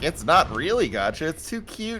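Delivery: mock coy wink. Imitating Nintendo excusing its gacha, mock coy. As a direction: say it with a playful wink. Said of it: "gonna wink and say".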